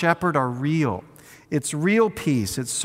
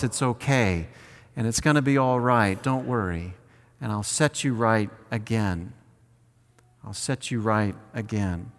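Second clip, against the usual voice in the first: soft, tender reassurance, fading softer; reassuring shepherd; 5 semitones lower, 3 dB quieter than usual. Acted. Shepherd soothing his fallen sheep, soft and tender. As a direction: soothe a frightened lamb gently.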